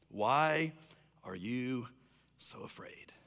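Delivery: slow and halting, fading to a whisper; hushed question. Acted. Jesus asks the disciples right back, hushed. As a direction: let it sink into near silence.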